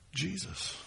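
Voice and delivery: usual speaking voice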